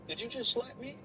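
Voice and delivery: shocked, high-pitched after a slap; stunned outrage at the slap; just got slapped. Acted. Reacting to a slap.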